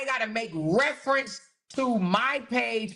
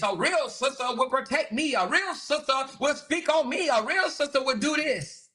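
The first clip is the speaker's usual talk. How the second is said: mock victim complaint. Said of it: "go to their platform and be like".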